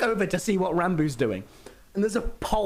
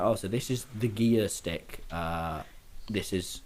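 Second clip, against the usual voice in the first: low-pitched, subdued instructor voice; imitated driving instructor; 9 semitones lower, 5 dB quieter, slower than usual. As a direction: mimic an older instructor explaining the car. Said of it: "this fifty-year-old who just doesn't".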